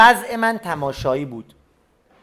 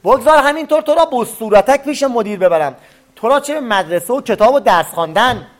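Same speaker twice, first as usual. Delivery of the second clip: teacher's angry shout; 3 semitones higher than usual. Acted. Furious teacher yelling at the student in the glasses. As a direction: bark it at the boy like an enraged teacher. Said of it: "فریاد معلم بلند شد".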